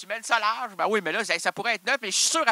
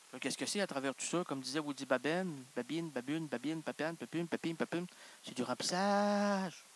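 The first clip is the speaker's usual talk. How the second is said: a quiet, lower murmur; soft aside; 4 semitones lower, 9 dB quieter than usual. Acted. Host murmurs filler babble to the audience. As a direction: keep it hushed. Stays hushed.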